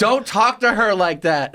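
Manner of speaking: high-pitched mock outrage; indignant scolding. People in the audience scolding the comic, imitated indignant protest. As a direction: imitate an appalled audience member objecting.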